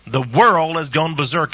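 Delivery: booming preacher declaration; loud. Real, not acted. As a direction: proclaim it to the whole room. Sermon, quiet then loud repeat.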